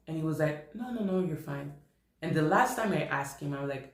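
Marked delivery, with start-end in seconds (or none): 0.7-1.7 retold soft-spoken reassurance; quiet reassurance. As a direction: gently imitate a friend playing it down. Friend brushes off her repeated worry.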